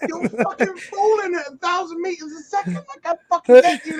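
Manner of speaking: high, strained through laughter; mock protest while cracking up; exasperated, laughing. Retells exasperated answer, laughing.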